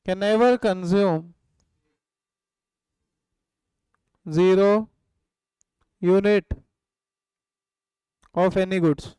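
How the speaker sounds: word by word with long gaps for writing; slow dictation. Shown as a demonstration. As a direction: dictate slowly, one word at a time. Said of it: "लिखो". (छात्रों को धीरे-धीरे लिखवाते हुए)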